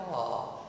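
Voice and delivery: put-on a soft, melting aah over a baby; doting aah. Shown as a demonstration. A parent looking at their child, softly cooing. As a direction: coo like a grandparent. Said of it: "we look at our child and we go".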